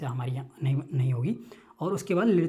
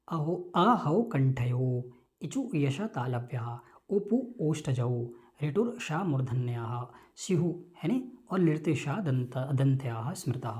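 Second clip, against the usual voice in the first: slow, measured chanting of a Sanskrit rule; sutra recitation; 2 semitones lower, slower than usual. Shown as a demonstration. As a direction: recite it syllable by syllable like a verse. (सूत्र का धीमा पाठ)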